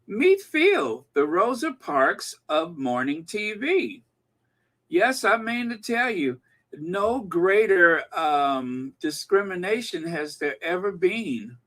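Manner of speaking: snarky mock-grand introduction; cheeky sarcasm. Real, not acted. Host mocks a morning TV figure to viewers, cheeky sarcasm. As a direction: proclaim it with tongue in cheek, stretching key words. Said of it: "with a bit of snark or a bit of cheek".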